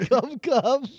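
high mocking cat call; imitating cat voice. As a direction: copy the cooing cat call. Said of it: "What's your cat voice?".

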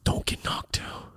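slow, hushed whisper to himself; inner-voice whisper. Retold or imitated. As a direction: whisper it as a private pep talk. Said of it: "Internally, I'm like".

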